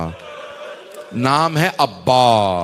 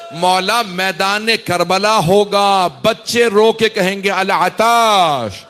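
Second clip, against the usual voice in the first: preaching lament; 5 semitones higher, 4 dB louder than usual. Acted. Zakir calls mourners to weep on Thursday night, rising lament. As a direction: plead with the mourners, building to a cry.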